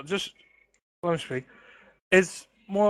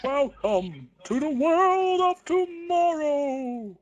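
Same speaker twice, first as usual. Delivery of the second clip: high, drawn-out theatrical proclamation; mock grand announcer; 10 semitones higher, much slower than usual. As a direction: stretch it out high and grand like a hammed-up showman.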